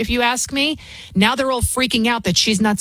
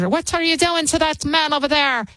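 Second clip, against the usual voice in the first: a lightly put-on Irish accent, raised; 6 semitones higher than usual. Host imitating the Irish woman in the Belfast video, mild Irish accent. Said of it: "I'm trying to do my Irish".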